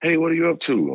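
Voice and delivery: high-pitched mock coach voice, friendly; imitating the coach. Coach phoning a recruit late at night, high mock coach voice. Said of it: "I'm like".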